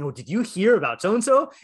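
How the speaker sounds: mock British lady spreading gossip. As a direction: lean in like a tea-party gossip. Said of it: "picturing British ladies with their".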